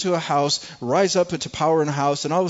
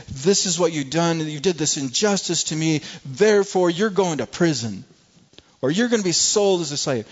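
louder, raised, pointed accusation; accusing brothers; 4 semitones higher, 3 dB louder than usual. Pretend. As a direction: hurl the charges at them. Imagined angry accusation of brothers.

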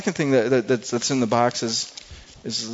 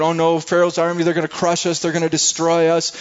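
mock panic; 5 semitones higher, 3 dB louder than usual. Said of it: "And they're panicking, and they're whimpering and crying".

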